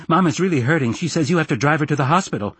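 put-on high-pitched, anxious boy; agitated boy's plea; urgent child. Frantic boy urging his father.

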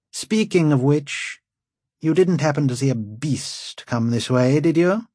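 haughty lord, rising impatience; impatient lord. A narrator's reading. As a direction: ask it with lordly impatience. Lord Wold asks impatiently.

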